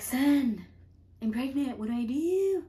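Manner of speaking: high, loud retold panic; mock freaking out. Telling Bonzo about the pregnancy, hammed-up panic. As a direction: wail it half-jokingly for help. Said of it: "I'm, like, freaking out".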